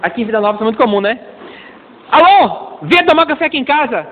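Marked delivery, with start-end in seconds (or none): 2.1-4.1 cheery caller. Retold or imitated. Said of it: "Aí alguém chama".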